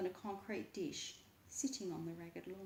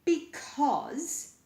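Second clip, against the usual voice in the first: higher and louder, insistent; loud emphatic because; 7 semitones higher, 11 dB louder than usual. A narrator's reading. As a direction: bark the first word. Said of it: "he said".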